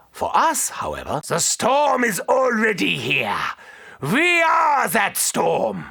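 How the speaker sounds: drawn-out triumphant shout; defiant battle shout. Acted. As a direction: declare it like a war cry. Battle cry to the horde.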